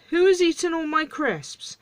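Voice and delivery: high-pitched indignant question; outraged dwarf. Acted. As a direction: squawk it like an affronted little dwarf. Dwarf indignantly asks who ate them.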